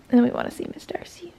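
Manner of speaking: whispering. Real, not acted. Whispering to the dogs.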